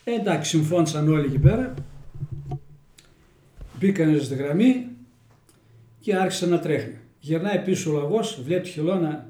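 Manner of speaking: the hare and the tortoise told in Kozani Greek dialect; homely village fable in Kozani dialect. Shown as a demonstration. Telling the next fable to the interviewer, in Kozani dialect. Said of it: "Στα κοζανίτικα".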